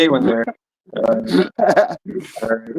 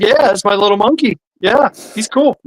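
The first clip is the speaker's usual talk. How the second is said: truck driver voice; 7 semitones higher than usual. Acted.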